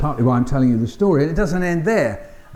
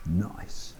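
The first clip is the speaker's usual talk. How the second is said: quoting oh nice; 8 semitones lower, 11 dB quieter than usual. Retold or imitated. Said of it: "the bit where you're going, 'Oh".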